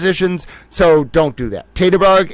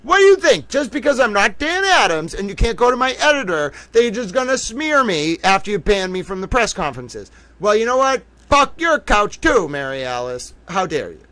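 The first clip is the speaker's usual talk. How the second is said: much higher, indignant rant; mock outrage; 6 semitones higher than usual. Streamer ranting at Mary Alice, pitched-up mock outrage. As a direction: tell her off in pitched-up indignation.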